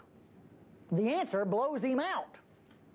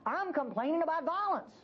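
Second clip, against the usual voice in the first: pleading complaint; 2 semitones higher than usual. Retold or imitated. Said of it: "He says".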